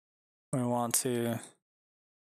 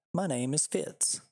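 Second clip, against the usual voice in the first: lightly voiced dog, slow and a bit higher; a mild stab at the dog speaking; 3 semitones higher, slower than usual. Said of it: "said twice as the dog".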